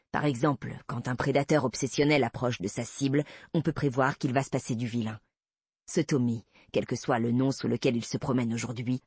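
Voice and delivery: a hint of a steady detective laying out the risk; understated male character voice, matter-of-fact; lightly voiced male investigator, composed.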